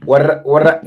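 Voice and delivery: mock South Indian English with rolled R; South Indian accent. Showing how South Indians sound in English, R-heavy accent imitation. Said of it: "they are putting R in every word".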